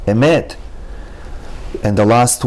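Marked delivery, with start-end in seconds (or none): 0.0-0.5 "Emet" with quick first e, longer second e; Emet, brief e then held e; short then long e. Shown as a demonstration. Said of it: "second e is a little bit longer".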